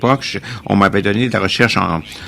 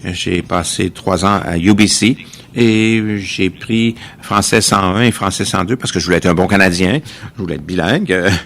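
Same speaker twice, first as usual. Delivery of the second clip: broken French. Real, not acted. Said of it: "Je parle un peu le français".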